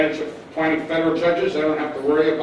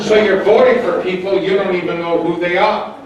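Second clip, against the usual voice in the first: words spilling through a laugh, a little louder; laughing while talking; 3 semitones higher, 8 dB louder than usual. Real, not acted. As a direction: chuckle through the line. Laughing at the audience reply.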